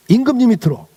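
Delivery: ordinary delivery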